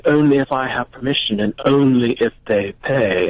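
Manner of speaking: flat monotone voice. Retold or imitated. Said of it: "she did it in a very monotone voice".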